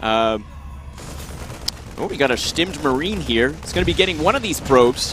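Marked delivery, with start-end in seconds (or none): 2.0-5.1 attempted American accent; put-on American caster voice, lifting at the end; Artosis. Shown as a demonstration. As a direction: do an American commentator impression. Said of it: "suddenly turned into Artosis".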